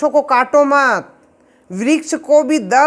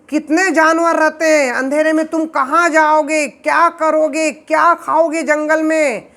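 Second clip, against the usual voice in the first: pleading father; 3 semitones higher than usual. Acted. Father Ved Vyas begs his departing son, lightly raised pleading. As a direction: beg the boy not to go into the jungle.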